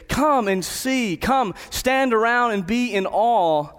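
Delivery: slow, lifted call to come and see; inviting call. Retold or imitated. Preacher voicing John calling listeners to marvel, slow and lifted. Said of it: "He's like".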